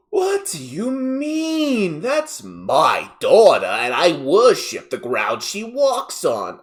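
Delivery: slow, high, indignant Southern wail; hammed-up Southern outrage, words stretched out; thick Southern accent. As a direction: protest like an affronted Southern mother. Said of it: "extremely thick, high-pitched Southern accent".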